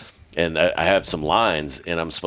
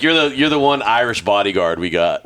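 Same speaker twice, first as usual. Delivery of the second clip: put-on louder South African accent; 5 semitones higher, 4 dB louder than usual. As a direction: do the South African boss again. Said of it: "He's like".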